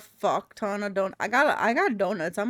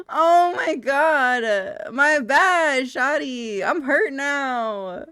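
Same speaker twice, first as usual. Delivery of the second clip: loud apology; 4 semitones higher, 8 dB louder, slower than usual. Real, not acted. Apologizing loudly mid-game.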